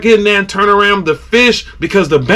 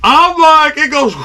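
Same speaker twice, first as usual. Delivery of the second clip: lead-in pitched up; excited high; 9 semitones higher than usual. Retold or imitated. Angler seeing an eleven-pounder jump, excited. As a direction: wound up with excitement.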